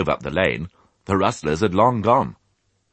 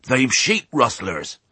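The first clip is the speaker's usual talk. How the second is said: put-on rustic old sheep; 6 semitones higher, slower than usual. A narrator's reading. Old sheep explains to piglet.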